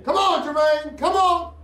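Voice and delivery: shouting. Real, not acted. Urging the suspect out.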